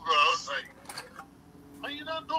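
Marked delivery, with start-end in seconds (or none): 1.8-2.4 much higher, incredulous; retelling his disbelief at the seller; mock disbelief. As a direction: act amazed he didn't know.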